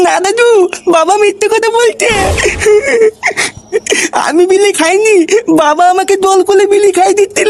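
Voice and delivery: high, whiny tearful protest; fake crying. Boy fake-crying to grandpa, blaming his father. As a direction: sob out the excuse, pleading.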